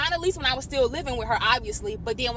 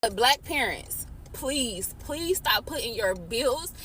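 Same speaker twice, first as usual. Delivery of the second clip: pleading while trying not to cry; real tearful plea; holding back tears; 3 semitones lower, 4 dB quieter than usual. Real, not acted. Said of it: "I'm trying not to cry".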